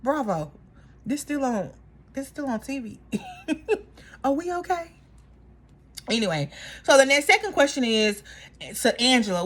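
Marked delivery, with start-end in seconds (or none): 0.0-4.9 stunned disbelief. Retold or imitated. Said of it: "I was like".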